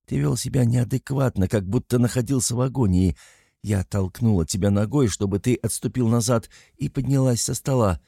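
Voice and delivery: ordinary delivery, nothing marked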